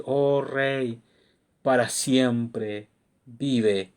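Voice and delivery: slow, solemn royal salute; bow to the king with each slow word; reverent greeting. Acted.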